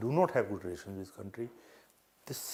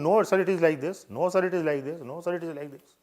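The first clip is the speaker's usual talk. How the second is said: arguing; 4 semitones higher, 3 dB louder than usual. Retold or imitated. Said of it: "started arguing".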